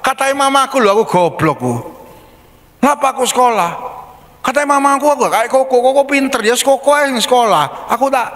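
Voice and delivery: put-on a boy told he's stupid, quoting mum; hurt child. Anak mengulang kata ibunya. (suara anak tinggi yang sedih)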